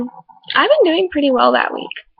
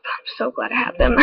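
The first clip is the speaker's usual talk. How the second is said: soft whisper; 5 dB quieter than usual. Real, not acted. Grateful, whispered aside.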